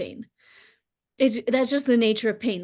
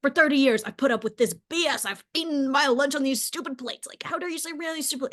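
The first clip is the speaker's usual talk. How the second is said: mock furious rant; 4 semitones higher than usual. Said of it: "losing his mind".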